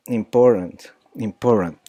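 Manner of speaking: "important" con T glotal; glottal T. Shown as a demonstration. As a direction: corta la T de "important" en la garganta. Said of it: "how she pronounced the, the T".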